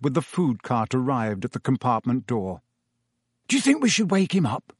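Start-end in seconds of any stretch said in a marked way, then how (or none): 3.5-4.7 awkward. A narrator's reading. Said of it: "Ron asked awkwardly".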